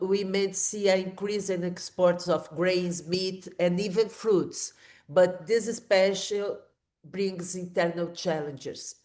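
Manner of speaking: thin, weak voice from a flu. Real, not acted. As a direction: voice worn thin by a coming cold. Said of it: "my voice is really weak".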